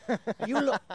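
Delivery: a hint of a brash act, rising to a shout; mock comedienne. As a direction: tease the crowd in a lightly put-on voice. Comic imitating a fringe act.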